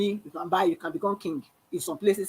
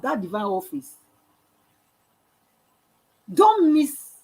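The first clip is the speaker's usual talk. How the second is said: impassioned plea; 3 semitones higher, 4 dB louder than usual. Real, not acted.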